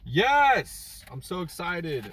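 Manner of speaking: high-pitched joyful shrieks; squealing excitement. Real, not acted. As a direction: shriek with pure delight. Thrilled at food.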